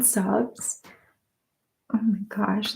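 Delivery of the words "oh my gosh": quiet whispered gasp. Real, not acted. ASMR host moved by cute answers, whispered. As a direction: hush it into the mic.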